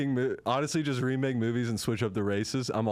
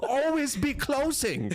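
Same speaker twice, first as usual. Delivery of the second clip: salesman impression; 13 semitones higher, slower than usual. Acting a Glengarry salesman line.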